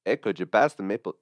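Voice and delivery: a hammed-up, half-hearted Canadian accent on "Hey, could you pass the maple?"; mock Canadian, lightly voiced; bad Canadian accent. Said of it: "I don't know what accent that was".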